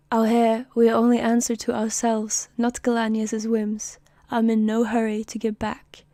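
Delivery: attempted British accent, steady and assertive. Soldier declaring independence to comrades in an attempted British accent. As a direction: deliver it proudly in a British accent. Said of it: "he needs to do a British accent".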